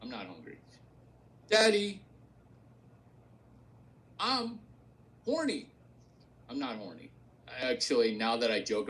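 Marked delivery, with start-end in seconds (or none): 0.0-0.6 deadpan denial. Real, not acted. Deadpan denial after bit. 1.5-5.7 mock coaxed daddy line. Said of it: "quoted line". 6.5-7.1 deadpan denial. Real, not acted.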